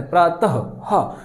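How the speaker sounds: slow प्रातः with its end sounded as हा; x0.6 demo of प्रातः and हा; visarga as ha. Shown as a demonstration. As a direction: stretch प्रातः, then a clear हा. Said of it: "वो हा के समान किया जाता है".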